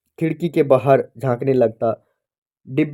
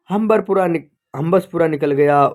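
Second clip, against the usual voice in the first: excited call; 4 semitones higher than usual. Acted. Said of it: "ऊंची आवाज में बोला".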